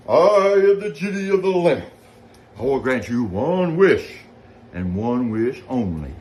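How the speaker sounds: high, loud grand genie voice. Acted. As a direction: proclaim it like a magical genie. Genie repeats his booming line.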